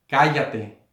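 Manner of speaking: measured reading of a command; slow, restrained reading. Shown as a demonstration. Preacher reads Jesus' rebuke in a small room, slow and restrained. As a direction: read it deliberately, holding back the shout. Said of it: "estoy leyendo así despacio".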